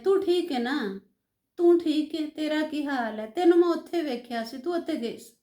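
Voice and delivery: lightly imitated offhand Punjabi greeting; a hint of an over-familiar Punjabi uncle; casual Punjabi address. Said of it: "आपको ये कहकर मुखातिब करते हैं". (हल्की पंजाबी लहजे की नक़ल)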